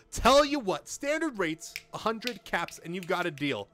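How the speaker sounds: high, loud hired gun naming his price; gruff mercenary haggling. Acted. Mercenary to the player, naming his price, loud and high. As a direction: bargain hard like a sellsword who knows his worth.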